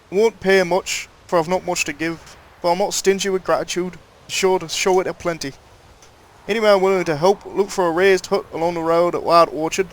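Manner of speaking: put-on a light rustic rural accent, reading a notice aloud; old-world rural accent, lightly voiced; reading a villager's plea in a mild rural accent. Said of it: "Sorry for that change of accent".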